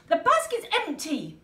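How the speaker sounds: a touch of a snappy Polly; snapping lightly at the goat; mild snap. Acted. Polly to the goat, a mild snap. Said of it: "Polly snapped".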